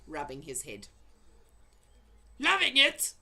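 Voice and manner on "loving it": loud, high outraged yell; furious yell. A narrator's reading. Giant yelling back at the BFG, outraged. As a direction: throw his words back with outrage. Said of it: "yelled the blood butler".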